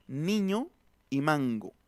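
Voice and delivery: Niño with a front n, mango with a back ng before the g; teacher modelling the two N sounds. Shown as a demonstration. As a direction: feel where the N sits in niño and mango. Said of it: "digan la palabra niño y digan la palabra mango".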